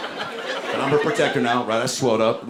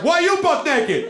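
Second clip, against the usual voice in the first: higher, slower mocking echo; echoing stranger; slower than usual. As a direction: throw the question right back. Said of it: "He was like".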